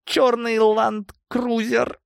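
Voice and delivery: high, slow, frightened stammer; stammering captive. A narrator's reading. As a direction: blurt the address out in fear. Beaten thug confesses, stammering.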